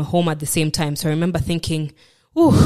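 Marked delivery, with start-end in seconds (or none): 2.4-2.6 breathy exhaled whoop of relief; sighed-out "ooh"; relieved "ooh". Retold or imitated. Relief at getting a break.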